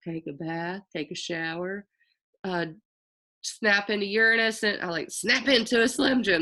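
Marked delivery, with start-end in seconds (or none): 3.4-4.6 Slim Jim ad voice. Retold or imitated. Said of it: "sounding like". 5.1-6.4 Slim Jim ad voice. Retold or imitated. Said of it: "That's what I'm sa-, sounding like".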